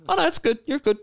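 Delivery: placated troll. Retold or imitated. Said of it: "talk to them like a reasonable person".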